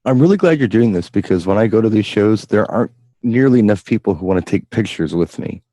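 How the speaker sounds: dry, understated sarcasm; sarcastic. Real, not acted. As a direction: feign being glad, with light irony. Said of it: "You're saying that sarcastically".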